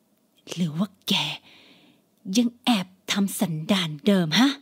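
menacing whisper. Acted. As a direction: lean in and hiss the suspicion. Mother suspicious, close.

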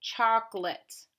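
"Chocolate" slowly in two beats, choc and lit; "Chocolate" slow, with a clear short lit ending; slow sounding out. Shown as a demonstration. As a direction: stretch "Chocolate" out for a learner to hear. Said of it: "Say it to yourself".

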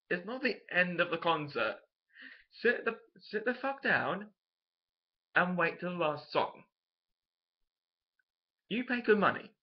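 exasperated rant, telling them off; indignant telling-off. Retold or imitated. Scolds concertgoers leaving early.

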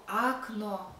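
окно as "AAK-no" with drawn-out open a; wrong full a. Shown as a demonstration. Teacher showing what isn't said, окно with full a. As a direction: stretch a clear a at the start of окно.

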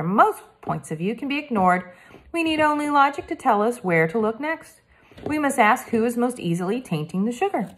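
lightly voiced polite French boy detective; a hint of a careful French accent, earnest; Hector, French boy.

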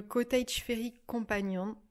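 English title in a French accent. Real, not acted. Vlogger reads out an English book title, French-accented English. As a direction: read the English with your own French accent. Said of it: "avec mon magnifique accent anglais".

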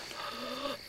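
small gasp of fear; frightened gasp. Retold or imitated. Comedian showing how they sat in the dark, scared gasp. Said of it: "we were like this".

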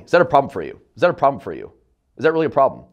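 clipped falling tone on that, a bit cold; sharp downward tone. Shown as a demonstration. Salesman showing prospects the wrong blunt way, falling tone. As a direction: drop hard at the end of problem. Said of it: "with a sharper downward tonality".

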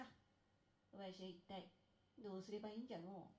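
put-on soft, low, worried old man; fretting old god. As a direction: mutter it like a troubled old god. Poverty god worrying.

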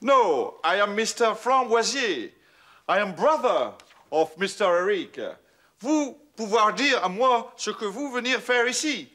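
a Frenchman hamming up English; mock English accent. Showing off his English to charm the Scottish visitor, in a mock English accent. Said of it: "Un accent anglais impeccable".

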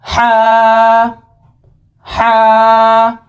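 हा from the middle of the throat; throaty ha. Shown as a demonstration. Teacher models हा for students. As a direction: breathe हा from mid-throat. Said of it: "गले के दरमियानी हिस्से से".

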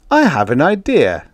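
brightly proposing. A narrator's reading. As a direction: pipe up brightly with an idea. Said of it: "said Retief brightly".

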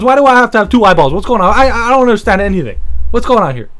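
hammed-up rant at your own body; mock rant. Continuing absurd mock rant.

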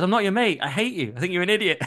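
mild mock yell at the radio host; mock farmer shout. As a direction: play the furious farmer, half-acted. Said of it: "the guy just shouts at me".

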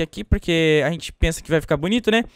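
ordinary talk

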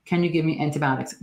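imitating a patient. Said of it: "that's such a classic statement".

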